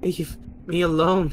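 high, loud denial; yelling at the horrors; desperate yell. Acted. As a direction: shout the visions away. Yelling at visions.

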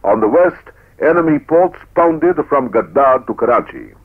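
stirring newsreel narration; proud, rousing war report; old newsreel. Acted.

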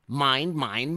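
loud, high greedy roar rising on "mine"; roaring monster. Acted. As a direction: bellow "mine, mine" like a greedy dinosaur. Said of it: "they heard a roar".

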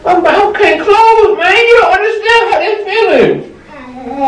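crying shout. Real, not acted. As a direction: wail it in distress. Panicked over swollen mouth.

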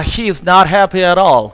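every word of "He is the very man" spaced out very slowly; slow model reading. Shown as a demonstration. English teacher reading the example sentence very slowly. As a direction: read it out word by word for the class. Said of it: "example sentence".

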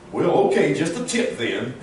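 lightly voiced goofy cartoon dog; a hint of dopey Goofy. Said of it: "Farmer saying Goofy's voice".

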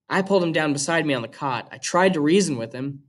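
steady, even read-aloud voice; reading a novel aloud to students; story narration. A narrator's reading. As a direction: read the chapter to the class. Teacher reads novel aloud to class.

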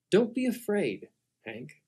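soft, steady and soothing; calm reassurance. Acted. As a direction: settle a frightened servant gently. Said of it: "calm, and he's all collected".

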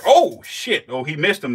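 sudden high, loud oh shit at the strike; startled outburst. Real, not acted. Vlogger yelps at the snake's strike, startled shout. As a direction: blurt it out as the snake lunges.

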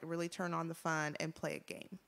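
teacher voice. Acted. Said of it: "you sound like a teacher".

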